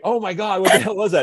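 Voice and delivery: high, stunned exclamation; Andy stunned. Retold or imitated. Andy reacting to the clip, stunned high outcry. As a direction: blurt it out in disbelief, way up high. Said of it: "Andy's like".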